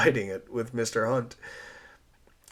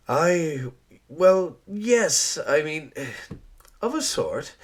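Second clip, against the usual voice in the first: put-on louder, higher, stammering young woman; flustered Eliza; 5 semitones higher, 5 dB louder than usual. Eliza blushing while explaining her ancestry, flustered. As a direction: fumble the start, then rattle off the story.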